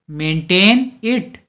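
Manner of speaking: maintain it said slowly, each word drawn out; slow clear repeat. Shown as a demonstration. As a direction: spell out maintain it slowly for learners. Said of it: "इसे बनाए रखो". (धीरे-धीरे, साफ़ दोहराकर)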